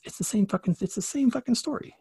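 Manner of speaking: rising exasperated insistence; emphatic disbelief. Real, not acted. Host stressing the matching myths, rising excitement. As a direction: pitch climbs, same hammered hard.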